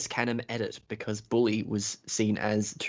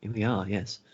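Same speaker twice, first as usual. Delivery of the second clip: smooth classical radio announcer voice; 3 semitones lower, 5 dB quieter than usual. Pretend. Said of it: "This is my classical announcer voice".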